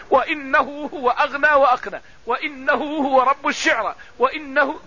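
every "وإنه" recited wa-innahu, with "i" on the hamza; measured Quran recitation, each "وإنه" starting wa-inna; kasra reading. Shown as a demonstration. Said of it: "كلها بكسر الهمز على الابتداء".

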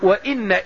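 "وإن" with an "i" on the hamza, wa-inna; kasra reading. Shown as a demonstration. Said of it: "وبعضهم يقرأ بكسر الهمزة".

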